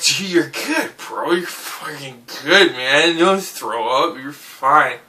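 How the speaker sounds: soft, hushed reassurance to himself; calm yourself down quietly; self-soothing. Retold or imitated.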